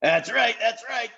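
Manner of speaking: high, bright, eager agreement; cheerful chorus. A narrator's reading. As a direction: happily chime in together. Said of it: "said all the voices cheerfully".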